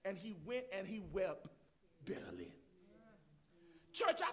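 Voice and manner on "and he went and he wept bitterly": softer into a whispered bitterly; soft grief fading into a whisper; sad fading. Acted. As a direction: let it die away in sorrow. Sad verse, fades to whisper.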